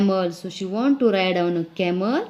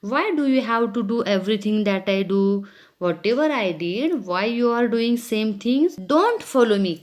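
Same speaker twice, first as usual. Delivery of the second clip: put-on angry girl; much faster than usual. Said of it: "angrily she said".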